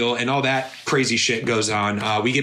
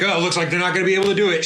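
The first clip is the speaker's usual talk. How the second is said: dismissive shrug; 6 semitones higher, much faster than usual. Retold or imitated. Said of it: "he was just like".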